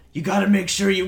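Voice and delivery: rough gruff tone. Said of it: "she sounds gruff".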